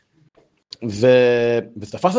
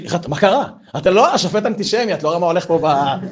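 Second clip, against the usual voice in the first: a fan's raised, indignant yell at the ref; yelling at the referee; 4 semitones higher, 3 dB louder than usual. Retold or imitated. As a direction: shout at the TV like a frustrated fan. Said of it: "פעם ראשונה בחיים ששמעתי צועק". (צעקת אוהד נרגז על השופט)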